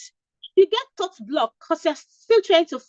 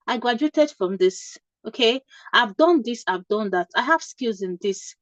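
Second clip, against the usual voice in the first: calm unhurried answer. Shown as a demonstration. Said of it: "How you talk normally".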